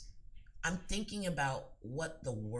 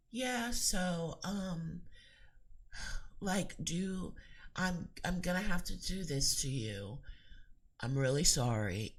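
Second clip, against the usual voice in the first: hesitant apology; 2 semitones higher than usual. Shown as a demonstration. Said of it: "are you gonna sound like".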